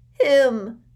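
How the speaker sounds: loud accusing cry; accusing Dudley. Acted. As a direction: point the finger with a shout.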